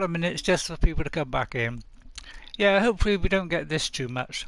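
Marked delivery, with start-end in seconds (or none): 2.6-4.4 mouth full. Real, not acted. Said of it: "I'm chewing a sweet at the moment".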